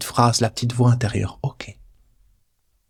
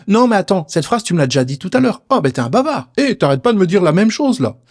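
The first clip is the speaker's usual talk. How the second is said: playful taunting; 7 semitones higher than usual. Pretend. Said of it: "tu peux t'amuser avec cette voix".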